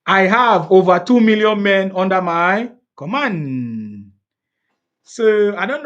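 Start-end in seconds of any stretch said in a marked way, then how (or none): 0.1-4.1 slow, louder mocking echo of the boast; mocking repeat. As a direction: drag out the boast to ridicule it. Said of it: "to say you have two million men".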